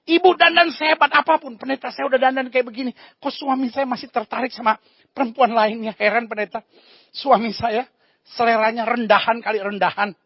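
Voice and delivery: lightly voiced wife whining to the pastor; a hint of a fed-up wife; complaining wife. Wife complains to pastor about her husband, mildly whiny.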